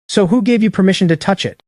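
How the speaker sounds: sharp interruption. A narrator's reading. Female boss cutting off the blond guy, indignant challenge. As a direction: cut in with an offended demand. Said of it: "The female boss cuts him off".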